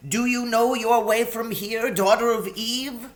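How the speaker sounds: high, anxious faun voice; a fretful, sorrowful faun. A narrator's reading. Tumnus at the lamppost.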